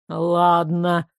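low, grudging «Ладно»; grudging okay; reluctant agreement. Acted. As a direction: give in unwillingly. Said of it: "согласился нехотя Огонь".

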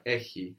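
"έχει" with a softened h sound before the final vowel; soft, light χ in "έχει". Shown as a demonstration. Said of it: "the h is a little softer".

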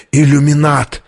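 lightly rasped accusation; hoarse rasp. A narrator's reading. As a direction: croak it out, restrained. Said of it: "и прохрипел".

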